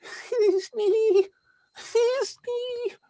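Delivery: tiny high falsetto, hammed up; monstrous little voice. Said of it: "I'll speak in a monstrous little voice".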